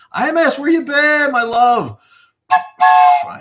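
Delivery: very high, loud, held-out greeting; sing-song greeting. Real, not acted. Streamer greeting a returning viewer, high sing-song call. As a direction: sing the name out to a long-lost friend.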